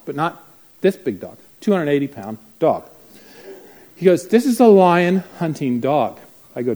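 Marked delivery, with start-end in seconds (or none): 4.3-6.2 louder, slow imitation of a dog owner; proud announcing. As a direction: announce it slowly and emphatically.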